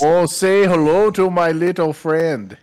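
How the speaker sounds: put-on slow, drawn-out northern Minnesota accent with a laugh; thick Minnesota accent. Chat's movie quote done in a thick Minnesota accent. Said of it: "doing in Minnesota accent".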